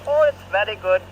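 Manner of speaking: a light, badly faked Irish accent. Retelling what Sean said in a badly faked Irish accent. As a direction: imitate Sean's Irish accent, half-hearted. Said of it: "in his Irish accent".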